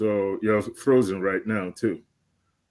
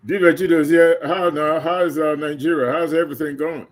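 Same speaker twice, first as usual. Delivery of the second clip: excited greeting; 5 semitones higher, 6 dB louder than usual. Real, not acted. Greeting a guest from Nigeria.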